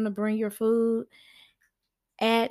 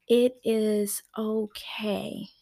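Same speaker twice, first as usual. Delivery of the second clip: slow, drawn-out reassurance; reassuring; much slower than usual. Real, not acted. Coach to crying pregnant mom, slow and reassuring. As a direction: comfort her, stretching each word out.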